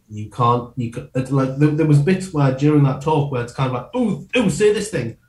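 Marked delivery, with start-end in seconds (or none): 3.9-5.2 much higher, eager whispery-free squeal of temptation; tempting inner voice. Retold or imitated. Inner voice nudging the speaker toward a joke, eager and high. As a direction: egg yourself on like an impish inner voice. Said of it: "you've got this extra voice going".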